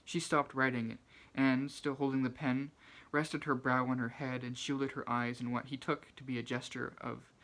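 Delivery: measured literary narration in a firm voice; careful, projected reading of fiction; reading aloud. Acted. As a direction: read it out like an audiobook passage. Reads a novel excerpt aloud.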